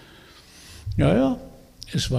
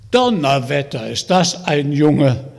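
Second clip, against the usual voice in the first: excited; 5 dB louder than usual. Acted. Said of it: "rief so begeistert".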